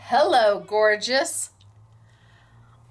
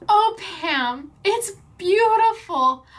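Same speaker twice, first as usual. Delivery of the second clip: moved, pitch lifting high and drawn out; tearful praise, stretched on the compliment; blubbering; 5 semitones higher, slower than usual. Real, not acted. Crafter thanking Pam for the gift, tearful. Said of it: "I'm just a blubbering little".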